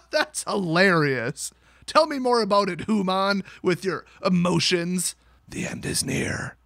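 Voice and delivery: slow mock machine overlord; Alexa. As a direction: play a gloating machine, drawing the words out. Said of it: "then she's just like".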